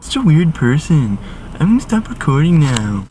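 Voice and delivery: high, mocking nosy-lady voice; a high mock of a suspicious shopper; imitating a nosy lady. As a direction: gossip about the weird boy in a high voice. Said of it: "and she's just like".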